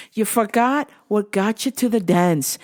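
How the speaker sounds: put-on first rough try at an Irish accent; attempted Irish accent. Coaching a fighter from afar, attempted Irish accent. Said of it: "Where's my Irish accent?".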